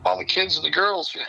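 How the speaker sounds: high, playful brush-off; mock carefree teen dodging his sister; brushing her off. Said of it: "And I was like".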